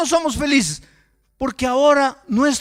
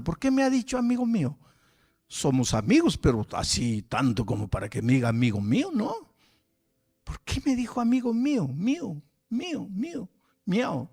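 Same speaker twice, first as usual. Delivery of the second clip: suspicious muttering; 2 semitones lower, 4 dB quieter than usual. Retold or imitated. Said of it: "el otro se quedó pensando".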